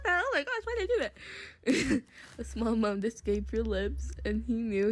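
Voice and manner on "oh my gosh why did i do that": embarrassed. Real, not acted. Embarrassed after moan.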